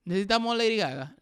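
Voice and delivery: incredulous question. Real, not acted. Same question in Spanish.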